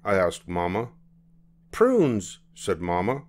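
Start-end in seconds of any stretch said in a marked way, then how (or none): 1.7-2.4 mother voice. Acted. Mama voiced.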